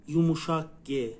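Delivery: name the Turkish soft g clearly; teaching tone; soft g named. Shown as a demonstration.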